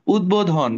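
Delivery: উদ্বোধন said udbodhon, b clearly sounded; উদ্বোধন pronounced udbodhon; spoken b demo. Shown as a demonstration. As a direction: say উদ্বোধন with a real b after the d. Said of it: "দ এর সাথে ব ফলার আবার উচ্চারণ করতে হবে".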